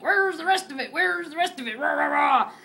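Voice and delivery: hammed-up cop barking questions; mock demanding cop. Woman imitating the chief demanding the rest.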